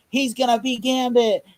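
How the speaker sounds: mock excited announcement. Retelling the Comic-Con panel reveal, mock excited.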